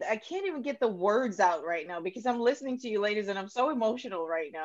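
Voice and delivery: really moved, holding back tears; on the verge of tears. Real, not acted. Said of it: "I'm about to cry".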